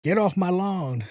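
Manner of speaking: a hint of a grumpy old man; mock grumble from an old man; old grandpa. Great grandpappy yelling at kids, lightly voiced grumpy old man. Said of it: "great grandpappy talking to you".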